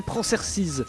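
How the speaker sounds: Prancer size slow, flat French reading; said without accent. Shown as a demonstration. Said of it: "je le dis sans accent".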